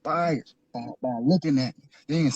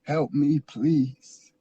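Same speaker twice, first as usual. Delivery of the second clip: retold tearful plea. Man retelling his plea to God for help, desperate begging prayer. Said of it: "I cried and I said".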